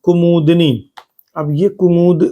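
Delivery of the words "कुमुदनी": slowly spelled out कुमुदनी; teacher's slow dictation; drawn-out word. Shown as a demonstration. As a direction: stretch कुमुदनी out slowly for the class. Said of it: "शुद्ध शब्द में कुमुदनी".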